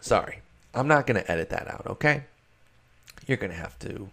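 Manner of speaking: usual speaking voice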